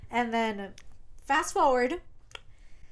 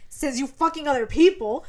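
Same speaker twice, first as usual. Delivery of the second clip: mock angry; 3 semitones higher, 6 dB louder than usual. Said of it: "He's like".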